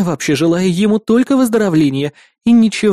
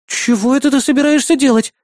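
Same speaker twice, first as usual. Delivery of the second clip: higher, alarmed protest; 8 semitones higher than usual. Acted. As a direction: object sharply. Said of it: "запротестовала Маруся". (протестующий возглас)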